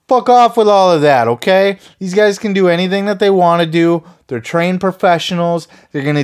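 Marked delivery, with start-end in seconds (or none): 0.1-1.8 louder, higher fed-up snap; real irritated outburst, louder; angry dismissal. Real, not acted. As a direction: shove the whole argument away. Angry rebuttal after mock quote.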